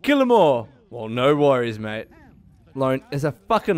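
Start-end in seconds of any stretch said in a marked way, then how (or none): 0.0-0.7 mock game character. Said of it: "He's just like".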